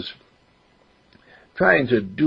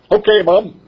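put-on higher boy's voice, eager; young boy voice; 11 semitones higher, 5 dB louder than usual. Boy explains he only got in dad's way, higher boyish voice. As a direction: voice a ten-year-old who wants to help. Mark agrees.

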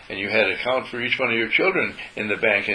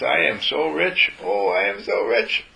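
joyful affirmation; 5 semitones higher, slower than usual. Shown as a demonstration. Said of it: "When we say to our consciousness".

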